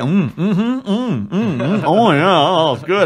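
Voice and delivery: high, forced hums of approval, laughing through them; faking enjoyment. Retold or imitated. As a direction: pretend to love food you hate. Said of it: "I kept trying to keep a straight face".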